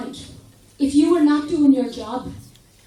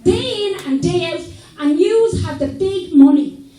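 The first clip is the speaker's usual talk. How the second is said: imagined speech to government. Retold or imitated. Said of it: "get to Dublin and say".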